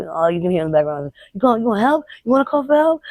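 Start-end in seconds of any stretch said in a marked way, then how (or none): 1.3-3.0 retold taunt. Retells attacker taunting her cries.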